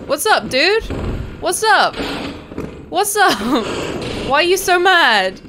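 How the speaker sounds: high loud frantic pleading; yelling at an enemy chasing you; panicked yelling. Real, not acted. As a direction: shout to calm the attacker.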